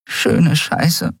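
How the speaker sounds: whispered high little curse; muttered curse. Acted. Nelen hiding her face, whispered curse. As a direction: mutter it into your hands.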